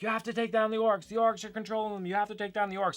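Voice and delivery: high-pitched yell without the volume; mock yelling. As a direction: imitate a crowd calling out, held back. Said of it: "people started to yell".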